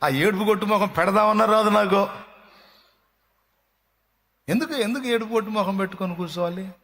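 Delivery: high, ringing preacher's cry; fervent pulpit exhortation; full-force preaching. Acted. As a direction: preach it out to the whole hall.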